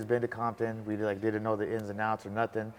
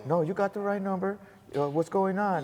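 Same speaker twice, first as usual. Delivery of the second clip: a lightly raised voice of the Southern lady; 9 semitones higher than usual. Retold or imitated. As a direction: mildly play the friendly phone lady. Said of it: "lady with a Southern accent".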